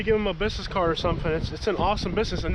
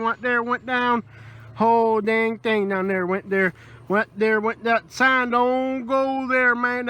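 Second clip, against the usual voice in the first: mumbled, run-on backwoods local rambling; rambling Southern local. Acted. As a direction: play a half-coherent swamp old-timer going on about the house. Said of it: "only a real Southern person is gonna tell you".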